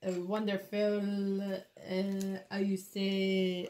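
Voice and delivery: a light put-on French accent, drawn out; mock French accent. Nail artist joking to viewers, mock French accent. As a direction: slip into a playful French accent. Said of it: "I don't know why I'm going French".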